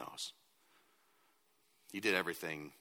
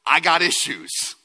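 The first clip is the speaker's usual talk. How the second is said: loud, high, emphatic confession; 6 semitones higher, 17 dB louder, slower than usual. Acted. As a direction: declare it boldly, almost shouting.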